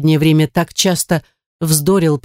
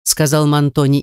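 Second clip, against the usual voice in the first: ordinary delivery, nothing marked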